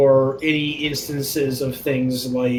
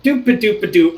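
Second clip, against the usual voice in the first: higher, bouncy nonsense humming; mock carefree player; 4 semitones higher, 4 dB louder than usual. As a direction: imitate someone bumbling along obliviously. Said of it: "but you're like".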